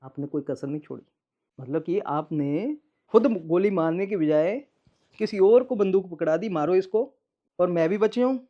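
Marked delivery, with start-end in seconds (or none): 1.6-8.4 louder, heated charge; heated accusation of his ex-wife; angry accusation. Real, not acted. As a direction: drive it home with rising anger. Angry accusation about attempted killing.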